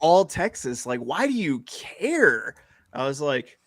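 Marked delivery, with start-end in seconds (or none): 0.0-2.5 higher, drawn-out questioning as wife; lightly voiced puzzled wife; imitating wife. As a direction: mimic an exasperated wife asking why. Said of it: "And she goes".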